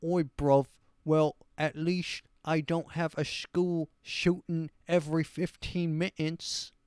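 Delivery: hammed-up stupid British bloke; dumb British accent. Host imitating a British person clapping back, dumb British accent. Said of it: "stupid British person just like".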